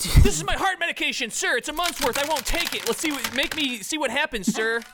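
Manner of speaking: high, keen recruit voice; eager old pledge. Acted. Old pledge offers pills to hazer.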